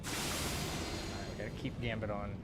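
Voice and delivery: slow, soft mumble to himself; barely voiced, slowly, eyes on the game; muttered under breath. Real, not acted. Gamer reminding himself mid-run, slow soft mutter.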